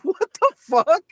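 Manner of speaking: slow, high-pitched disbelief; retold bafflement. Father reacting to daughter's British accent, baffled. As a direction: draw it out, mock-appalled.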